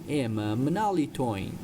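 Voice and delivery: ordinary talk, nothing marked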